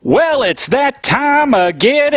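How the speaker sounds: usual speaking voice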